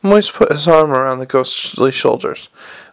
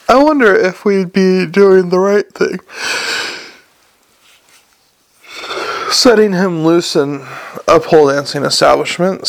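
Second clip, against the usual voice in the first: doubtful Hicks; 3 semitones higher than usual. Acted. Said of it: "said Hicks doubtfully".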